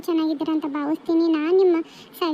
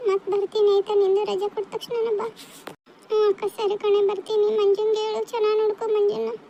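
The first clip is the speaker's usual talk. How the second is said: slightly higher, acted weepy voice; tearful goodbye; 3 semitones higher than usual. Two sisters promising to meet in the holidays, tearful. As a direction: part reluctantly, holding back tears. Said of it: "ಎಷ್ಟು ಅಂತ ಅಳ್ತೀರಮ್ಮ ಇಬ್ರು".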